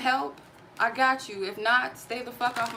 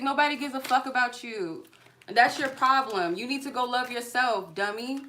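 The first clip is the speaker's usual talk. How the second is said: real anger, pitched up; angry yell; 3 semitones higher than usual. Real, not acted. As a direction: throw it in his face. Yelling at harasser on live.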